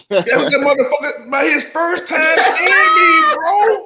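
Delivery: words pushed out through laughter; high, laughing disbelief; laughing while telling. Real, not acted. Laughing while retelling the moment.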